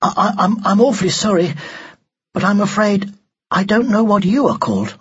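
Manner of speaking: put-on high, hesitant boy's voice; very polite. A narrator's reading. Ned summoning courage to ask the doll's name, very politely. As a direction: stammer into a courteous apology. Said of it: "very politely".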